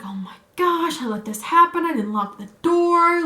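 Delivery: high-pitched mock panic; freaking out. Boyfriend blaming himself for the unlocked door, mock freak-out. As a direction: imitate someone freaking out, pitch jumped up. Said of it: "freaking out".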